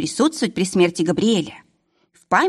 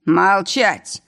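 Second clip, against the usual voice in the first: barked order. Acted. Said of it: "рявкнул преступник".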